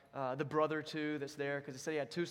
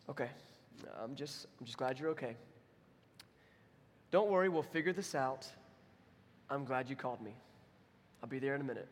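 reassuring dad; 2 semitones lower than usual. Retold or imitated. Dad calms the son after breath.

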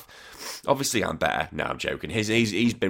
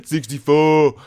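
mock amazement; 7 semitones higher, 9 dB louder, slower than usual. Mocking the sixty-four naming craze.

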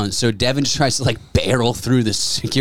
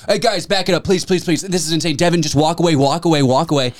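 mock peacemaker; 5 semitones higher than usual. Breaking up the fight.

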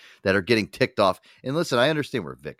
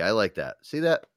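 normal talking voice

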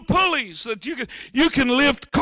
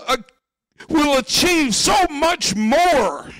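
preaching shout; 3 semitones higher than usual. Acted. Preacher building to climax.

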